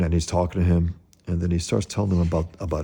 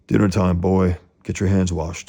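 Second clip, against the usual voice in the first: a loud call to dinner; barking order; 4 dB louder than usual. Acted. Father ordering his son to wash up, loud call. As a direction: call the boy in loudly. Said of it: "He goes".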